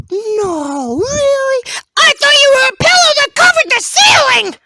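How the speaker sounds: high, loud, exaggerated disbelief; mock amazement. Teasing the carpet about what it is, mock amazement. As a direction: blurt it out in huge fake astonishment.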